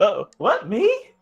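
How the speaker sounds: uncanny, slightly mechanical, too-perfect mimic voice. Voicing a hidden mimic in the darkness: Chella's voice. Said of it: "you hear Chella's voice say".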